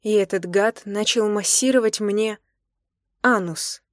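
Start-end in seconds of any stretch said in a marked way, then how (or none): none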